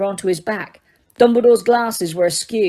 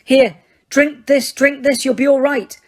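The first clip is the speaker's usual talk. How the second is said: desperate urging; 4 semitones higher, 3 dB louder than usual. Acted. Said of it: "said Harry desperately".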